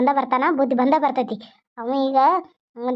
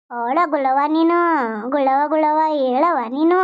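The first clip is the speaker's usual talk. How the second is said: put-on cooing to baby. Grandmother coos at sleeping baby.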